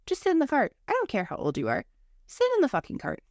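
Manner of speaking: put-on high, stern, fed-up command to a kid; frazzled parent snapping at her daughter; exasperated mom order. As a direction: bark it at a child who won't sit. Mother ordering child in store.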